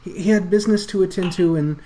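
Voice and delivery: panicked stammer. Acted. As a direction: blurt it out terrified. Rat NPC explains.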